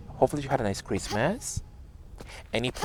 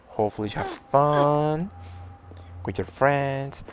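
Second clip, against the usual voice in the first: voice crack. Real, not acted. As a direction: voice cracking mid-line. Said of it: "And the voice crack, I'm sorry".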